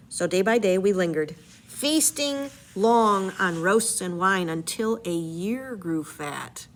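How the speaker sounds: story narration, read aloud with energy; dramatic reading. Acted. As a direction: read the epic aloud to the class. Reads Odyssey aloud.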